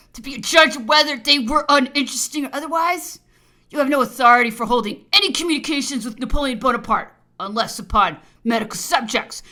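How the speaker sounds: loud, overbearing reprimand; angry rebuke. Acted. Governor forbidding the officer's communications, angry rebuke. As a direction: lay down the law at full voice.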